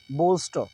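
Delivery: बोल्स्टर said with the r barely touched; बोल्स्टर with only a light hint of r; soft r bolster. Shown as a demonstration. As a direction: say बोल्स्टर with no full rolled r. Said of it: "ध्यान दीजिए मैं क्या बोल रहा हूँ".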